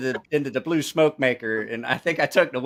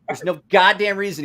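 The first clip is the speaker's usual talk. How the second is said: retold indignation; 7 semitones higher, 5 dB louder than usual. Retold injured friend's angry complaint.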